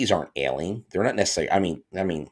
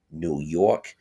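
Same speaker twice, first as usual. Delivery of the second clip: horrible New York accent. Shown as a demonstration. Podcast host naming listeners' home states, in a bad New York accent. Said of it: "it's a horrible New York accent".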